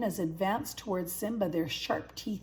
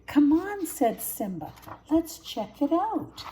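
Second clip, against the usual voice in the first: high keen urging; excited cub daring a friend; eager cub; 8 semitones higher, 5 dB louder than usual. A narrator's reading. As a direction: pull your friend along.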